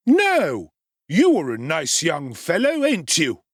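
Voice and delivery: loud sneering rebuke; angry undertaker. A narrator's reading. Sowerberry boxing Oliver's ear, mild sneering anger. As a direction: shake the boy while you scold. Angry husband shaking boy.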